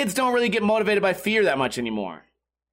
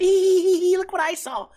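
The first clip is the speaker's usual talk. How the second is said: put-on squeaky high excited kid voice, much higher; 12 semitones higher, 3 dB louder, slower than usual. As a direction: play a thrilled little kid showing off a find. Kid found the hidden gun.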